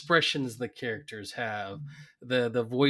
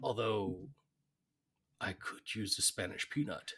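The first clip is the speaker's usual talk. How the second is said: Burns. Acted. Burns refusing Smithers's babying, protest fading to meek admission. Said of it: "Burns is like".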